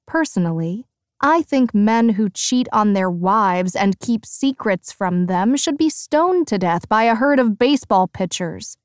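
biting comeback; sharp retort. Acted. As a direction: snap back with a cutting retort. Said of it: "I retort".

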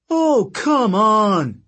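high, slow, disbelieving shout; scornful shout. Acted. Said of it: "Octavian shouted".

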